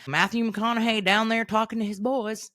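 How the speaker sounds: a hint of a hammed-up Texas accent; bad Matthew McConaughey accent. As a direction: attempt a Texan accent, not very well. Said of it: "That's an amazing accent".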